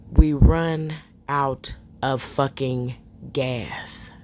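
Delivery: slow, low horror-story voice; hushed storytelling. Real, not acted. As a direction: drop into a hushed ghost-story tone. Telling the scary part, hushed.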